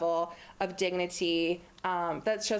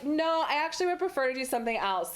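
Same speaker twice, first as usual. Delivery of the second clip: polite, kind decline to her brother; gentle, respectful no after being too harsh; gentler refusal; 5 semitones higher than usual. Retold or imitated. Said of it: "Let me try this again".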